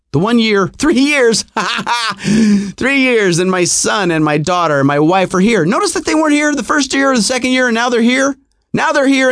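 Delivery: heated indignant rant. Retold or imitated. Ranting about the new rule.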